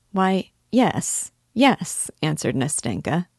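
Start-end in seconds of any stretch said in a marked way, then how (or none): 0.1-2.1 eager agreement. Acted.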